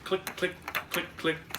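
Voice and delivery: high, evenly spaced clicks; crisp rhythmic sound words; ticket-punch clicks. A narrator's reading. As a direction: tick them off like a ticket punch. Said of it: "the conductor punched tickets".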